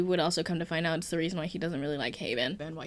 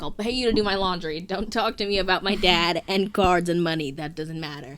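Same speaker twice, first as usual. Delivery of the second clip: louder, mock-indignant insistence; insistent retort; 7 dB louder than usual. Guy on the phone brushing off his friend, insistent. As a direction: push back loudly at a doubting friend.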